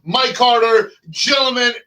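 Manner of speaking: a hammed-up British accent, Irish and Cuban bleeding in; mock British accent. Host greets callers in a hammed-up British accent. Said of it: "Did you just get in from London".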